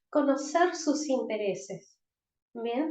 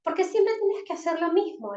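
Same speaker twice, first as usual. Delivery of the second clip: sharp reproachful scolding, higher pitch; scolding parent; 6 semitones higher than usual.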